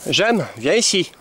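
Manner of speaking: high, slow sing-song call to the dog; coaxing call. Real, not acted. Owner coaxing her dog J'aime over, high and slow. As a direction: draw the dog in, stretched out and high.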